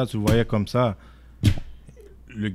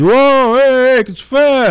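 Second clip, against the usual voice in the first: yelling at the cop; 14 dB louder than usual. Retold or imitated. Filming the police search, he shouts at the officer, loud and high. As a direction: call him out loudly, on the spot. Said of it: "là, je crie".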